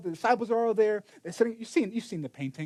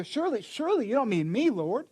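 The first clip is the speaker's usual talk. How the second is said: anxious disciples; 3 semitones higher than usual. Retold or imitated.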